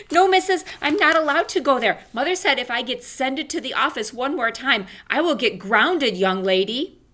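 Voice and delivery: put-on high, loud pleading child; pleading protest. Junie B begging the teacher not to send her to the office. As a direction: beg her not to take you there.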